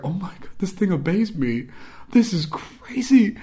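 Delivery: high, drawn-out wonder; amazed. Retold or imitated. Retells his own amazement at curls.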